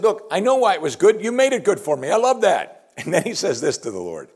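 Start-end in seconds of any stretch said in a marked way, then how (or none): 0.0-2.9 high, bright, louder voicing of David's joy; delighted David. Preacher voicing David's delight to the Lord, high and eager. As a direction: gush about the good life. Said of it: "He said".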